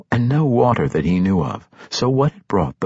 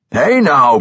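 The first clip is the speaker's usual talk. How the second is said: surprised shout; 5 semitones higher, 5 dB louder than usual. Acted. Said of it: "Bruner shouted in surprise".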